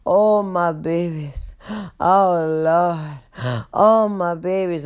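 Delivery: lightly acted winded old woman; drawn-out words between heaved breaths; catching breath. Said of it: "catch her fucking breath".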